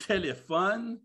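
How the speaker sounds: slow, drawn-out Québécois nagging; partner's slow Québécois grumble; Quebec accent. Acted. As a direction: complain in broad Quebec French, dragging out the words. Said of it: "le copain ou la copine dit... bon accent québécois".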